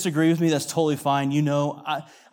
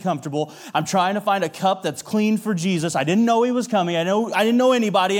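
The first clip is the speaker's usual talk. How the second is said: frustration boiling over. Acted. Martha fuming to herself while serving, building frustration. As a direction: let the flustered complaint climb as it goes. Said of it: "all of the emotions and the feelings ... starting to boil over".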